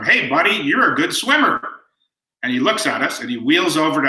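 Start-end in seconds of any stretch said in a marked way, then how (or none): 0.0-1.6 mild, higher-pitched imitated call; retold yell. Son calling to a swimmer at the pool, mock yell. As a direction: call out lightly, as if across a pool. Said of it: "Sean yells at him".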